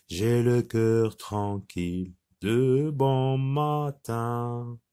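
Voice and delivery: slow, measured chant-like recital with sustained vowels; poem recitation. Shown as a demonstration. Teacher models the poem for pupils to repeat, slow recitation. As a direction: recite it evenly for children to repeat, drawing out each syllable. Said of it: "Vous répétez après moi".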